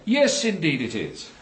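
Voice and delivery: slow, deferential agreement. Real, not acted. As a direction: defer politely, slowly. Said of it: "I just said indeed with more than a hint of deference".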